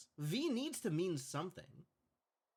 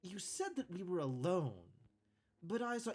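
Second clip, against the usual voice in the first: woman character voice; 2 semitones higher than usual. Acted.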